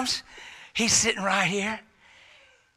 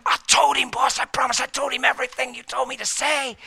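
higher, quick and nervous; anxious pleading minion; 5 semitones higher, faster than usual. Acted. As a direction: insist like a scared servant. Demon pleading with boss.

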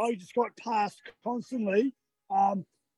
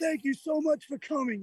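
higher-pitched imitation of cheering locals; excited fans; 6 semitones higher than usual. Imitating roadside fans cheering an Australian runner, lightly excited. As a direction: mimic a thrilled fan, lightly voiced. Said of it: "they were going crazy, going".

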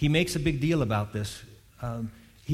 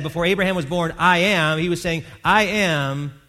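loud, high declaration; emphatic proclamation; 4 semitones higher, 6 dB louder than usual. Real, not acted. Preacher proclaiming Jesus's words, loud. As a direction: ring it out as the climax.

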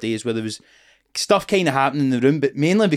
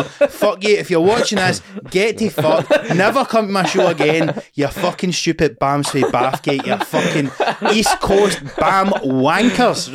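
mock rant; 3 semitones higher, slower than usual. Real, not acted. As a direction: tell the hecklers off to camera. Addresses hecklers directly.

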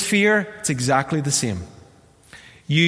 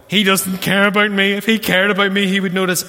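mock hurt thought; 5 semitones higher, 5 dB louder than usual. Voicing the hurt inner thought.

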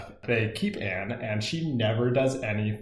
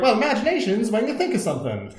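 mock Anne; 10 semitones higher, 4 dB louder, faster than usual. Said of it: "she's like".

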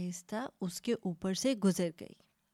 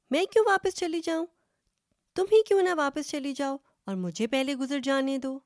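higher, quick indignant retort; defiant second goat; 5 semitones higher, 4 dB louder, much faster than usual. Acted. Second goat refusing first goat's request, higher indignant retort. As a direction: throw it back indignantly, pitched up and fast.

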